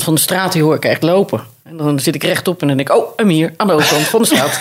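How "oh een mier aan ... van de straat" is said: laughing through the words. Retold or imitated. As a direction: giggle while saying it. Own thought, told laughing.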